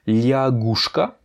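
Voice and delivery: liagushka read slowly with lia as written; spelled-out reading. Shown as a demonstration. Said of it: "ça s'écrit". (liagushka lentement, comme il s'écrit)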